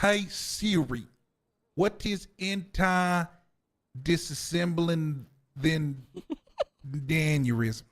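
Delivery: slow mock Polish accent for Siri; put-on Polish accent. Shown as a demonstration. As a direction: say anti-disassembling very slowly with a thick Polish accent. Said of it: "Let me say it with the, the accent".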